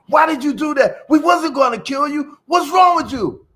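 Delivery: high, loud pleading shout; loud, high scolding of a snake that bit itself; yelling at the snake. Retold or imitated. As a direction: yell at the snake in disbelief. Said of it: "yelled at the snake".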